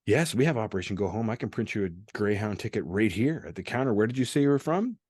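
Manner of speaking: helpful desk-worker imitation, rising at the end; counter clerk. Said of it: "I get to the final place".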